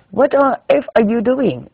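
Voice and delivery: put-on high, loud scolding old-school knitter; bossy exclamation at a pupil's mistake; scolding Swedish teacher.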